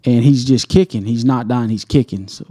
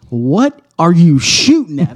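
mock wife; 6 semitones higher, 6 dB louder, slower than usual. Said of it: "my wife is texting me".

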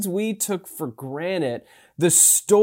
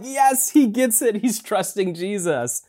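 higher, bright cheering for Peter; excited cheer; 5 semitones higher than usual. Retold or imitated. Congregation cheering Peter's brief win on the water, excited. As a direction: celebrate like a fan watching him win. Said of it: "We're like".

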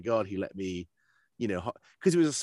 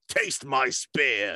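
slow, louder gruff warrior bark; gruff rider; 3 semitones higher, 4 dB louder, much slower than usual. Acted. A Rider of Rohan in the game, slow gruff bark. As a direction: growl it like a big gruff rider. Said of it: "big gruff guys going".

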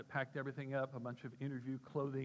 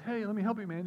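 high, loud offer of help; raised-voice storybook rescuer; acted calling out; 8 semitones higher, 9 dB louder than usual. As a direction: call across the flood to a drowning man.

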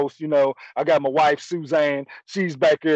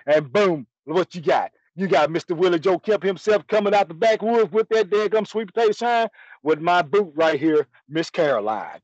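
ordinary delivery

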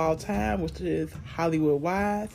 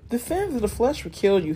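warning; 5 semitones higher, 4 dB louder than usual. Acted. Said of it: "he warned".

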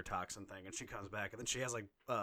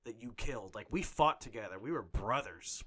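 a louder, hurt father accusing Batman; lightly acted furious father; mock angry Gordon; 4 dB louder than usual. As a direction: voice Gordon's grief-fueled rage, a bit louder. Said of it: "he's just like".

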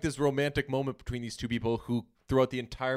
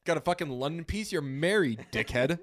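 mock accusation; 5 semitones higher than usual. Voicing wife's accusation at husband.

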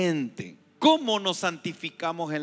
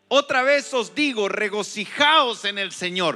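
louder repeated call; 5 dB louder than usual. Acted. Pastor repeating Paul's call to the congregation, louder and rising. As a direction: proclaim it again, pushing the volume up.

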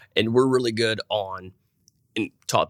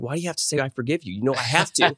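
higher-pitched mock protest; retold exasperation; 4 semitones higher than usual. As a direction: complain like a husband cornered into forgiving. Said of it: "makes me so mad".

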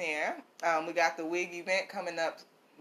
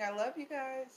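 voicing baby Yoda; 10 semitones higher, 7 dB quieter than usual. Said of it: "He's saying".

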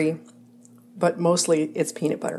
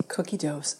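softer, muttered repeat of a slip; quietly echoing the slip Cookie doughs with a groan; annoyed self-repeat; 7 dB quieter, slower than usual. Real, not acted. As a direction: mutter your own mistake back, annoyed.

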